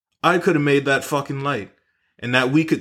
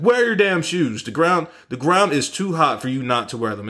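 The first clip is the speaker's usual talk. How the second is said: mock scolding; 5 semitones higher than usual. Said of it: "my girlfriend starts flipping out".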